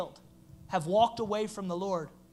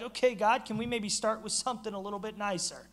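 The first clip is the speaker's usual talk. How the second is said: wary plea. Pretend. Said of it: "I would be like".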